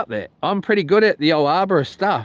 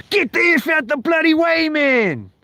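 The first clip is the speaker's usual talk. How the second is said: much higher angry shout; yelling at him; 12 semitones higher than usual. Retold or imitated. Yelling at the neighbour under the tree, angry shout. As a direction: bellow him out of the way. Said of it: "You're like".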